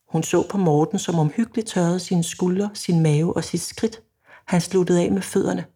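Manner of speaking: measured story narration; oplæsning. A narrator's reading. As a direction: read the novel passage evenly, pausing between sentences. Reads passage from own novel aloud. (rolig højtlæsning af roman)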